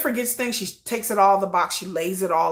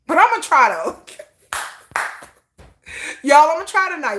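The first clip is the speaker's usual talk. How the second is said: excited; 6 semitones higher, 5 dB louder than usual. Real, not acted. Excited promise to viewers, laughing.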